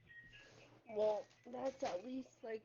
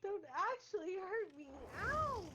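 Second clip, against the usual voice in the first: being tickled; 7 semitones higher than usual. Real, not acted.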